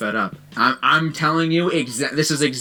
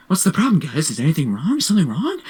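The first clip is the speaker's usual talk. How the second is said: mock innocent teacher; 3 semitones higher, faster than usual. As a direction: act as if nothing happened. Teacher to silent class.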